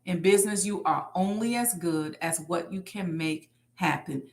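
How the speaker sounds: unhurried repeat for note-takers; dictating. Real, not acted. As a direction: spell it out phrase by phrase for people typing. Type that in the chat.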